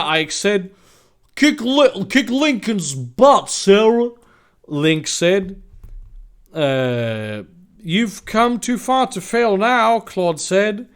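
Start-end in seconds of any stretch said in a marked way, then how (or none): 1.4-4.1 high, loud, stretched-out egging on; acted rallying cheer. Ally cheers on the heroine. 7.8-10.0 slow, high, loud story dialogue; acted encouragement. Ally cheers on the heroine.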